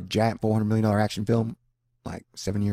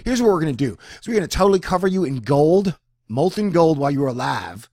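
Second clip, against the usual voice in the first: raised-pitch, louder plotting voice; mock villain threat; 5 semitones higher, 5 dB louder than usual. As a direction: lay out a gleeful threat, easing off at the end. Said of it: "I like the thing yesterday. It was like".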